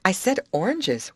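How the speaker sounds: pointed correction, stressing "oranges"; emphasis on oranges. A narrator's reading. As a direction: lean firmly on the word "oranges". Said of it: "putting emphasis on the word".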